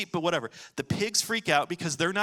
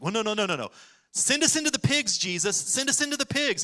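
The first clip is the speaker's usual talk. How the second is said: higher, whiny begging; pleading demons; 5 semitones higher than usual. Retold or imitated. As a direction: beg like a cornered demon. Demons beg Jesus.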